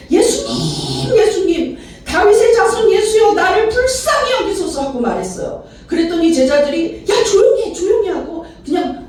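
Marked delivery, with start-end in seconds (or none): 0.1-4.8 crying out. Acted. Blind beggar calling to Jesus for mercy, crying out high. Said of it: "소리를 내서 부르짖습니다". 7.1-8.1 high, urgent hushing; scolding. Acted. Disciples rebuking the shouting beggar, high scolding. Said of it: "어, 다그칩니다".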